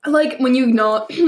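coughing through the words, throat catching; choking on candy. Real, not acted. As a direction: talk while choking on sugar. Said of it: "I'm, like, choking on the sugar stuff here".

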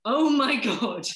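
retold amazed reaction, slow and emphatic; şaşkın tepki. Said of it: "that was the thing I went".

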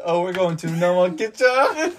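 a lightly put-on mock Asian accent, laughing through it. Retelling his own joke to friends, laughing mock Asian accent. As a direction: say the made-up place name in a goofy put-on accent. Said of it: "making fun of Asian people".

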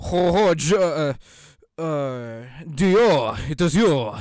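loud, hammed-up French accent; mock French. Podcaster playing JoJo's in French, loud mock French accent. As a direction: declaim it like a cartoon Frenchman. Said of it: "with a French accent in English".

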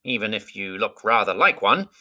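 a great bird talking down kindly; eagle voice. Acted. Eagle speaks to Bilbo.

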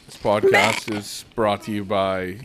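slow mock sponsor intro; fake ad read. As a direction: announce the sponsor slowly. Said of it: "Do a fake ad read".

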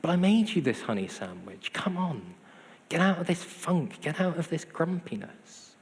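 pleading, mildly frustrated imitation; mock hurt. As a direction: coax a sulker while feigning hurt. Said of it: "we can get quite hurt".

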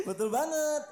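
high, loud laughing agreement. Real, not acted. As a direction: laugh through the words. (sambil tertawa)

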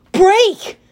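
high, loud order; god shouting at the driver; urgent command. A narrator's reading. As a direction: yell it to stop. Apollo urging brakes.

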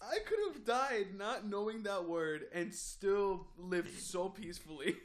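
high, loud mock outrage with laughter; incredulous and cracking up; laughing protest. Real, not acted. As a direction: protest helplessly through real laughter. Cracking up over a funny word.

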